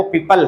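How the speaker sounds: पीपल with an unrounded "al" ending; पीपल ending in "uhl", not "ool"; correct PEOPLE pronunciation. Shown as a demonstration. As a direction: say पीपल with a neutral schwa before the l. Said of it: "जो correct pronunciation है".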